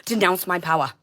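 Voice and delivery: real rage, screaming at them; furious shout. Real, not acted. Ranting at everyone who wronged her, furious yelling.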